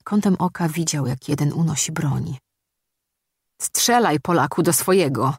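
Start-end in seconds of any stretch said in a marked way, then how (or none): 3.6-5.3 rzuć żołnierzowi wyzwanie, podnosząc głos; wyzywający krzyk w emocjach; desperacki krzyk. Acted. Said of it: "krzyknął Michał". (umiarkowany krzyk desperacji)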